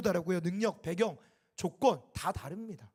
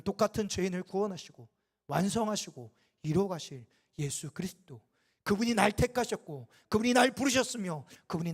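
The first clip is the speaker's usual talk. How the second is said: impassioned answer; 4 dB louder than usual. Retold or imitated. Pastor answering the young man with passionate conviction. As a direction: preach it as a fiery confession. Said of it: "분노를 쏟아부으면서 대답을".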